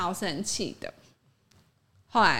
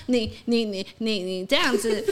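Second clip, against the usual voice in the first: imitating stutter. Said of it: "然后就一直结巴".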